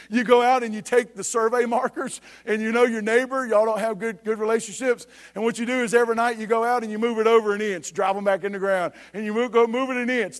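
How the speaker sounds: emphatic preacher's storytelling; preaching illustration. Real, not acted. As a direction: preach the example with momentum.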